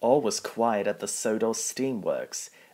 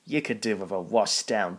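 teasing. Acted. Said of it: "teased Spencer".

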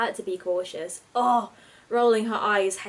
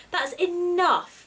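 stern command; 9 semitones higher, 3 dB louder, much slower than usual. Acted. Granny silences the quarrel.

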